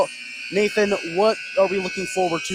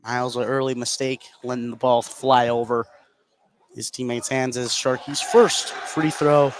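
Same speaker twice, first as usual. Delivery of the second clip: steady running game call; live play-by-play. Real, not acted. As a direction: call each possession as it unfolds.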